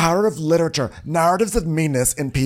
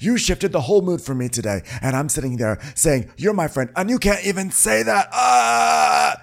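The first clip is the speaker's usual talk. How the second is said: mock yelling; 7 semitones higher than usual. The speaker yelling at Jen.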